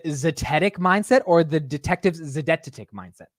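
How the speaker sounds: zetetic versus zedetic, said side by side; two pronunciations offered. Shown as a demonstration. Streamer asking chat which way, testing both sounds. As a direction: weigh zetetic against zedetic aloud. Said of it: "do you wanna say the detectives z".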